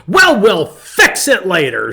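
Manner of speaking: loud, laughing, slow reassurance; aunt laughing off the niece's drama; laughing reply. Retold or imitated. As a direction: laugh it off kindly. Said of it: "she says".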